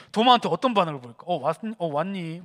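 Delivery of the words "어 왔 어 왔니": understated, lower-pitched "oh, you're back"; low-key, unbothered acknowledgement; casual mock greeting. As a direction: greet a returning friend as if nothing happened. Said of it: "뭐 이렇게 할까?".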